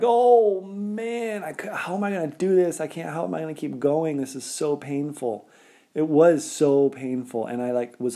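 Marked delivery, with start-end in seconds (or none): 0.0-5.5 high, fast, pained cry of dismay; retold pain panic. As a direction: squeal it out as the foot gives way. Retelling sudden foot pain mid-race.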